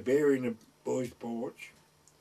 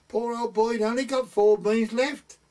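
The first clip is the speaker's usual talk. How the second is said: quoting a gossiping woman; 9 semitones higher, 7 dB louder than usual. Retold or imitated. Mother retelling a neighbour's gossip.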